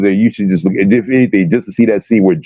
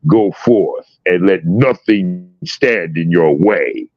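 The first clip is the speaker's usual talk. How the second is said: lightly voiced Magneto commanding; much slower than usual. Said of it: "he's like".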